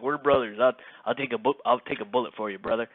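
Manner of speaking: imitating a thick Southern accent; 南部訛りの口真似. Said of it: "thick, thick Southern accent".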